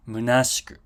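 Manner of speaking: "Munashiku" with a voiceless sh and no i; "Munashiku" with sh straight into ku; unvoiced sh. Shown as a demonstration. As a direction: say "Munashiku" as moo-NAHSH-koo. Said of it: "it's munashiku".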